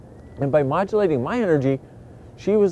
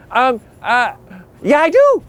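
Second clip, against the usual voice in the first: higher, louder sudden eager yes; perking up; 9 semitones higher, 6 dB louder than usual. Retold or imitated. Waking up to a flirty friend's call, eager. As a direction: jump at the invitation.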